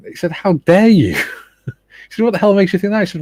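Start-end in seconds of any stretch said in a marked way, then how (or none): 0.3-1.2 high, loud indignant protest; retold outrage. Neighbour protesting at being thrown out of the pub, retold with outrage. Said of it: "he was raging". 2.2-3.0 high-pitched mock indignation; retold indignation. Neighbour challenging the pub staff, in imitated indignation. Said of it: "he was raging".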